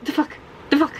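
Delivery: strained, whining "the fuck"; half-crying complaint; mock anguished groan. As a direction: groan it out in disgust. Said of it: "I was like".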